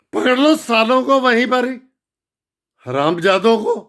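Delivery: furious urging. Real, not acted. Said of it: "घर में बैठा आग बबूला हो रहा हूं".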